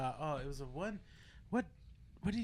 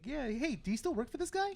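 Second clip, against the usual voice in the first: much higher, breezy greeting; mock high-pitched friendly hello; Pete Davidson voice; 10 semitones higher than usual. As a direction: lightly mimic a goofy roommate. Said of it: "He goes like".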